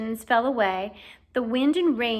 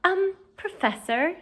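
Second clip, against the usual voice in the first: cautious; 8 semitones higher, slower than usual. A narrator's reading. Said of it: "approached Professor Lupin cautiously".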